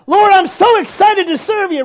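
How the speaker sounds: high and loud mock enthusiasm; a fickle believer promising God; mock eager. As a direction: gush like a brand-new zealot.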